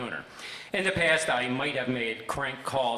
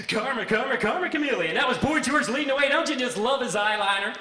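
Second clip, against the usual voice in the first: high, bright radio announcer back-sell; fake DJ voice; 9 semitones higher, 4 dB louder than usual. DJ post-introducing the song for the boss in fake radio voice. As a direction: ham it up like a radio jock. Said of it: "with my fake D J voice".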